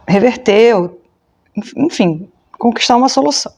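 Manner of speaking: talking through hiccups; words broken by hiccups; hiccuping. Real, not acted. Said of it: "eu tô com soluço".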